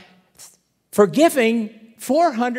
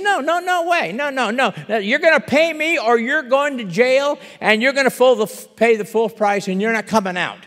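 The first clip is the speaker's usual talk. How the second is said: angry refusal; 5 dB louder than usual. Acted. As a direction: shut down every plea hard. Servant refuses mercy, threatens jail.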